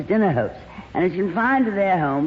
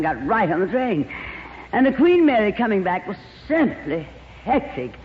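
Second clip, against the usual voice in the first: gushing glamorous actress. Acted. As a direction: coo over him like a diva. Plays Lorraine.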